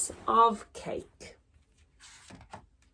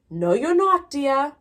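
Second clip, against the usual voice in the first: higher, louder sweet but firm; firm refusal; 6 semitones higher, 5 dB louder than usual. Acted. Wife firmly overruling husband's plan, higher voice.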